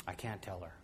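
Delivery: soft, low admission; hushed worried kid; quiet fearful boy. Retold or imitated. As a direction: say it small and afraid. Scared boy about bully.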